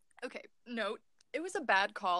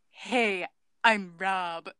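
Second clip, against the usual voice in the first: badly faked French accent, a little low; failed French accent; 4 semitones lower, much slower than usual. Actor trying out Rob's introduction, in a failed French accent. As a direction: attempt a French accent and miss it. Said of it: "That wasn't a French accent".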